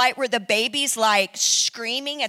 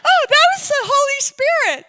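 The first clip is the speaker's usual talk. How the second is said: playing it cool; 12 semitones higher, 8 dB louder than usual. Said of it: "trying to play it cool".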